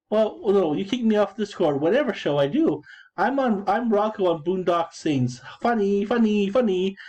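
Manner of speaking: mock him in a whiny pitch. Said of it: "mocking quote".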